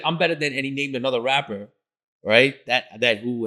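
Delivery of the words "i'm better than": put-on childish boast. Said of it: "It was like a kid".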